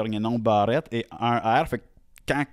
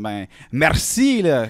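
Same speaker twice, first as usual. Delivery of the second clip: mock polite; 4 semitones higher, 6 dB louder, much slower than usual. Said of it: "sont comme".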